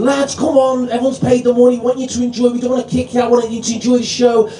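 lightly acted compere reasoning with the crowd; mock reasonable plea; pleading compere. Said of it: "I'm like that as the compere, going".

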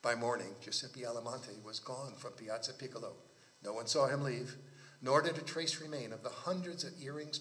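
measured literary read-aloud; story narration. Acted. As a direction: read the tale with deliberate phrasing.

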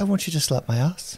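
playful put-on Irish lilt; Irish accent. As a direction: tease in a mock Irish accent. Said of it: "No, that's Irish".

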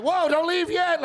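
slow, high, loud panicked whoa; mock alarmed shout. Comedian hams up calling the runner back, loud and slow. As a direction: stretch it out, yelling to stop him.

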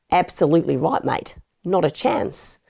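put-on a light Australian accent, breezy denial; half-hearted Australian accent brushing off the question; mock Australian accent. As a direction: play the Aussie suspect, shrugging it off in an Australian accent. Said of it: "my attempt at an Australian accent".

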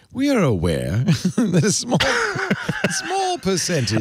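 slow, mock-posh British reading; hammed-up British accent, laughing as it breaks; cod British accent. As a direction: read the corporate statement in a put-on British accent. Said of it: "are you doing a cod British accent".

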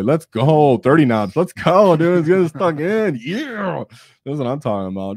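loud, high-pitched hype yell; fired-up fan shout; hyped cheering. Real, not acted. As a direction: cheer them on with rising excitement, ending in a high whoop. Cheering on a player's army list.

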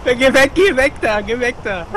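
loud high shooing. Real, not acted. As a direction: shoo him away. Shooing away a player.

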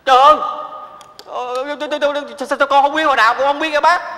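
high, loud panicked stammer; shocked outcry. Acted. Son shocked by mother's death news, stammering outcry. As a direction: gasp and stammer in disbelief. Hears his mother died.

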